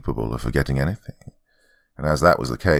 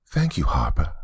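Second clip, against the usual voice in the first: whispered. Acted. Maid android answering the girl.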